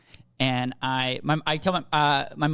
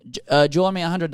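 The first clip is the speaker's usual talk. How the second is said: quick, louder mock Mexican accent; 5 dB louder, faster than usual. Man in a Hummer demanding money, thick Mexican accent. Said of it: "I'm doing the accent".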